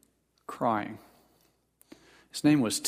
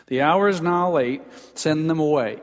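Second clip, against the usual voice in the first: louder, impatient demand; tired, cranky disciples; 2 semitones higher, 4 dB louder than usual. Retold or imitated. Hungry tired disciples pushing Jesus to dismiss the crowd, impatient and louder. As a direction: push the crowd off in weary irritation. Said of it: "it's hard to be kind and spiritual when you're tired".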